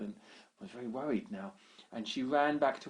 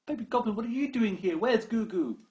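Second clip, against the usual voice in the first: high, loud, quick startled question; surprised Sheila; 11 semitones higher, 8 dB louder than usual. Acted. Sheila finds the baby goblin on her balcony, high startled question. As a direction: catch her off guard.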